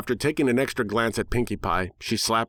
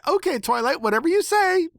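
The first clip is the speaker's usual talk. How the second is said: much higher, cheerful pony chatter; happy pony blabbing; 3 dB louder than usual. Acted. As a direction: blab it out like a giddy cartoon pony. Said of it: "Pinkie blabbed happily".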